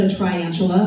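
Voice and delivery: "triantula" said as try-antula; mom's mispronunciation. Retold or imitated. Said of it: "And she said".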